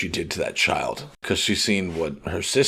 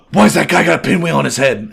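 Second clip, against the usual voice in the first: high, loud mock bewilderment; hammed-up puzzled outburst; Luffy, baffled; 6 semitones higher, 8 dB louder, faster than usual. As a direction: blurt it out as a clueless goof, laughing. Acting out clueless Luffy, amused.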